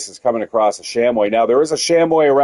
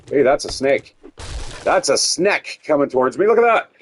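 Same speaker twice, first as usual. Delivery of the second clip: excited; 3 semitones higher than usual. Real, not acted. Spots a snake approaching.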